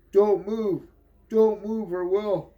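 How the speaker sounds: police command. Acted. Cops ordering Pitt to freeze, loud command. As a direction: shout it like a cop drawing down.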